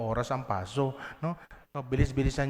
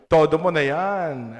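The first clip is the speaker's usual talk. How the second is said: loud, slow, pushed out; loud all-out call; 3 semitones higher, 11 dB louder, slower than usual. Shown as a demonstration. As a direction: give it everything, shouting it slow. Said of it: "Sabi niyo sa katabi". (malakas na sigaw, todo)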